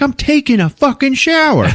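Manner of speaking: very high-pitched outraged woman; hammed-up exasperation; mock indignant shriek. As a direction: snap back in a high put-on voice. Retold bathroom quarrel, woman answers.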